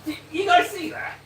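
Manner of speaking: half-whispered jumpy trooper; nervous space marine. Retold or imitated. Streamer imitating a marine spotting something on a demon world, spooked and hushed. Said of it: "He's like".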